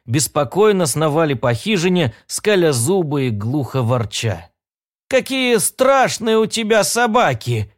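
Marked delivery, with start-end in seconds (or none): 5.1-7.7 put-on high, frightened old woman voice; a frail old lady scared of dogs; trembling old woman. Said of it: "дрожащим голосом прошамкала старушка".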